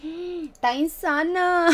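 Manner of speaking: drawn-out astonished gasp; slow, stunned praise with a laugh; gasping amazement. Real, not acted. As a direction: gasp and stretch it out in awe. Gasps at the photo.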